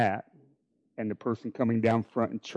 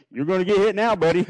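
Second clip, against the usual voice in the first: raised, louder retold warning; mock fatherly threat; 8 semitones higher, 6 dB louder than usual. Dad walking son back to the table, mock threatening. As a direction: act out an exasperated dad's threat.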